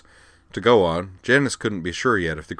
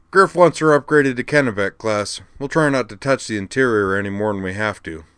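lightly voiced friend, louder, higher start; lightly voiced Cochrane; 3 semitones higher, 6 dB louder than usual. Friend reporting on the upgrade job, lightly voiced character. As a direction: play the helpful friend with a livelier lift.

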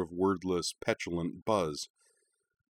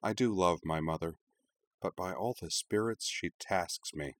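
softer, slowing, worn out; weary; 5 dB quieter than usual. Acted. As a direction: sigh through the complaint. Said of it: "she added wearily".

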